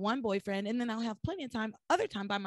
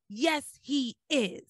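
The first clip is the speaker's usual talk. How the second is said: firm insistence; 3 semitones higher, much slower than usual. Retold or imitated. Podcaster retelling her answer about her son, very firmly. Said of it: "she very strongly says".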